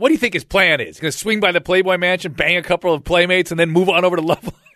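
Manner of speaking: high, screaming at the top of the lungs. Reminding the listener how he yelled at her on the phone, retelling the scream. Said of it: "Screaming this".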